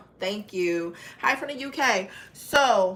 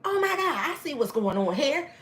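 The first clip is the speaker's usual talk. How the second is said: a hint of a startled cousin, high on Oh my God; lightly voiced cousin catching on, Oh my God jumping up high; mock shocked gasp of Oh my God, then the words of the realization; cousin's realization; 7 semitones higher than usual. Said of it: "my cousin finally says".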